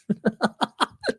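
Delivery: sudden high embarrassed laugh; caught-out laugh; laugh at himself. Real, not acted. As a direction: burst out laughing at your own mistake. Laughs at own flub.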